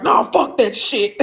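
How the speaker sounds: a mock high, slow "nah, fuck that shit"; imitating his brush-off. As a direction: drag it out like he's waving it all off. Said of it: "And he was like".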